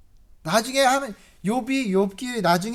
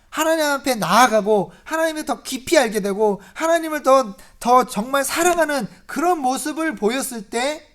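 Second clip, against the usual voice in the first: high, louder preaching build; full-force preaching; 5 semitones higher, 6 dB louder than usual. Acted. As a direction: drive the point home to the congregation.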